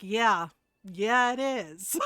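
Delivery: low, drawn-out resigned agreement; sighing admission. Retold or imitated. Cousin admitting she is picking him up, sighing. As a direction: imitate a mom reluctantly conceding. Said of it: "my cousin sighed and goes".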